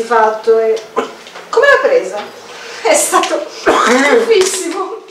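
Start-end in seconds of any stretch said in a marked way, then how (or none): 2.8-5.0 amused, chuckling delivery; giggling. A narrator's reading. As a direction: read with a light giggle. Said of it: "ridacchiò lei".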